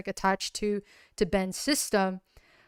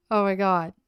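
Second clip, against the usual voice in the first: character grieving; 2 semitones higher than usual. Acted. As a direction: mourn poor Ben with a breaking voice. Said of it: "So it was like".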